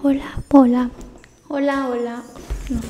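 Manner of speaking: high squeaky helium voice; squirrel voice. Real, not acted. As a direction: squeak it out like a chipmunk. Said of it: "Con voz de ardilla".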